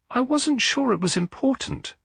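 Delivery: shaky, nervous denial; trembling voice. A narrator's reading. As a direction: voice trembling with nerves. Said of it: "the tremor in her voice".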